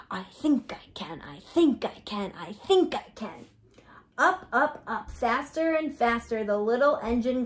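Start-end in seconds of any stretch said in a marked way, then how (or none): 0.1-3.5 whispered chant; hushed rhythmic mantra. Shown as a demonstration. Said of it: "Try that".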